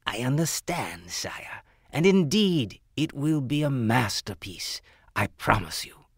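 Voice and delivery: fawning jeweler voice; formally addressing royalty. Acted. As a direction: promise humbly to the king. Jeweler answers the king.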